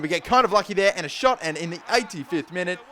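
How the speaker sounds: rising excitement at a late goal; excited commentary. Real, not acted. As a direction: call it like a sudden lucky chance.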